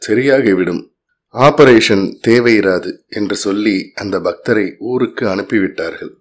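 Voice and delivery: measured devotional storytelling, each sentence opening lifted; story narration. A narrator's reading. Narrator telling devotees of Maha Periyava's miracle, in story narration. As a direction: narrate it as a devotional tale, with clear pauses.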